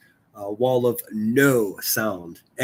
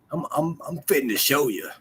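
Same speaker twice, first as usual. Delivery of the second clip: put-on Southern accent; 2 semitones higher, 3 dB quieter than usual. Host showing viewers how he does a Southern accent, drawled Southern. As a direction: do a folksy, manly Southern accent. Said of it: "When I do a Southern accent".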